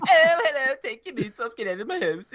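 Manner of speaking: mock Canadian accent. Hammed-up Canadian to the friends, mocking. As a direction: ham up a Canadian host, high on hello. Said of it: "that's Canadian".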